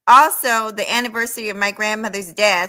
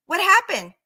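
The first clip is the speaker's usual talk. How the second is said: mocking taunt; 9 semitones higher than usual. Real, not acted. Taunting the absent rival.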